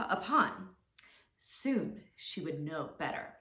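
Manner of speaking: expressive, measured storytelling; children's story narration. A narrator's reading. Teacher telling children a fable, expressive storytelling. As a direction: tell it to little ones, drawing out key words.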